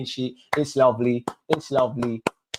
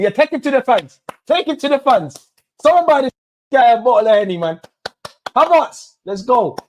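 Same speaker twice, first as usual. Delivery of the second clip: much higher and louder, fast; ecstatic cheering; 9 semitones higher, 6 dB louder than usual. Real, not acted. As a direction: hype him up at full volume. Celebrating player, cheering.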